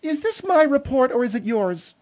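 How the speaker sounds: a crack in the voice. Real, not acted. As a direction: voice cracks mid-question. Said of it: "Boy, your voice cracked there".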